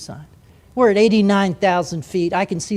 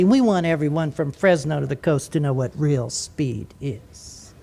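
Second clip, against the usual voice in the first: mock cocky fighter jock; 3 dB louder than usual. Mocking the Navy pilot's thinking.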